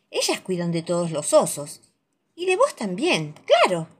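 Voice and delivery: lightly voiced wise old bear; gentle, knowing grandpa bear; calm gentle wise voice. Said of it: "dice él con voz de sabio".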